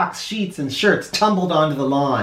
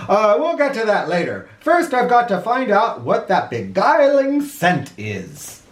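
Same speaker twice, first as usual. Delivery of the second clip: distracted president; 5 semitones higher than usual. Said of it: "president replies to mayor".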